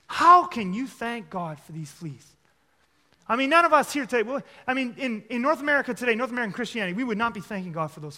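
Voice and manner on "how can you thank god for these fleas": louder, slow, disbelieving protest; exasperated outburst. Retold or imitated. Sister protesting in the flea-infested barracks, exasperated and louder. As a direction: throw the question back at her in disbelief. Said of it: "Corrie just loses it".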